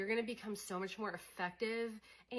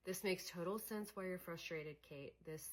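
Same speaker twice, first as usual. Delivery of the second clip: reassuring self-talk; 2 semitones lower, 6 dB quieter than usual. Shown as a demonstration. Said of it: "being like".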